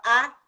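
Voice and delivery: put-on short grunted "ah" like a child asking; child's grunt for water. Shown as a demonstration. Therapist voicing a child's wordless request, grunted. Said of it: "Se ele quer água e ele fala".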